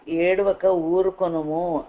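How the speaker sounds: slow, drawn-out quoted command; measured, deliberate decree. Retold or imitated. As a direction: stretch the words out as a solemn order. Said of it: "అని ఆజ్ఞాపిస్తున్నాడు".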